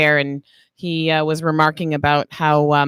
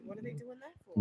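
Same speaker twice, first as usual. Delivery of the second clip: retold quote; 21 dB quieter than usual. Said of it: "She said".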